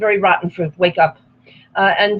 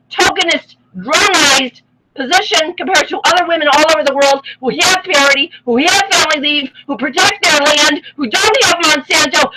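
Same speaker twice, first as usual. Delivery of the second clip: tearful rant; 5 semitones higher than usual. Real, not acted. Impassioned rant with crying.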